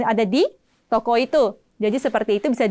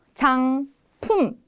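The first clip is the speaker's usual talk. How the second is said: whispered word. Shown as a demonstration. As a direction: breathe out 화장품. Models new word quietly.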